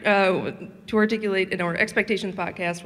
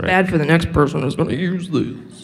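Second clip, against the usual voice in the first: put-on Oklahoma accent; 2 semitones lower, 8 dB louder than usual. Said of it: "Was that my Oklahoma accent?".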